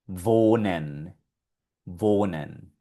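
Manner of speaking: "Wohnen" with W said as a V, long o; German W as V. Shown as a demonstration. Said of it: "donde está la W".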